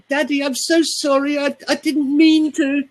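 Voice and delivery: put-on whiny small child. Shown as a demonstration. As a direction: beg Daddy like a frightened small child. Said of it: "We don't go".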